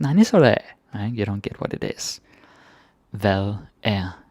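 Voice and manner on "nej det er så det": acted puzzlement. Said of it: "you're like".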